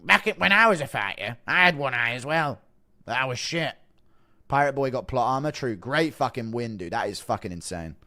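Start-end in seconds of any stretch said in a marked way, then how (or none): 0.0-3.7 Bisping impression. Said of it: "Impression of Bisping only now just noticing Shara's eye".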